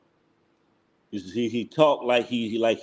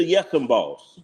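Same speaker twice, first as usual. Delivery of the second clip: mocking imitation of a servile yes-man; lightly hammed-up subservient voice; slower than usual. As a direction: tease him with a put-on obedient reply. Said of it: "you sound like a yes and boss".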